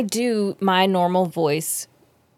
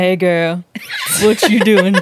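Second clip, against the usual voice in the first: put-on boy voice; 4 dB louder than usual. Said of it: "try and do a boy voice".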